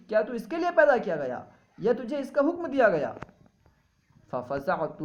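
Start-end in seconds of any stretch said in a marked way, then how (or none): 0.1-3.1 high, loud calling voice from nowhere; unseen caller. Retold or imitated. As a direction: call out like a mysterious voice from the unseen. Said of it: "ایک آواز دینے والے نے مجھے آواز دی". (بلند اور اونچی غیبی پکار)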